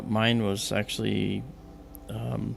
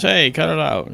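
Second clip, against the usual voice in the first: mock protest; 6 semitones higher, 6 dB louder than usual. Officer shot in backside protests.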